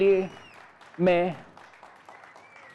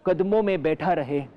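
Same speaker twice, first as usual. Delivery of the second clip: declaim, then let the refrain die away; mock poem recital. Reciting the satirical poem, refrain fading, mock declaiming. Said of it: "एक कविता पेश करने जा रहा हूँ".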